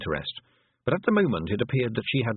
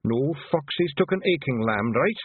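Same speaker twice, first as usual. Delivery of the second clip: a cheeky pixie squirming for an excuse; squeaky, guilty Feegle stalling; flustered Feegle; 8 semitones higher than usual. Acted. Rob Anybody keeps excusing.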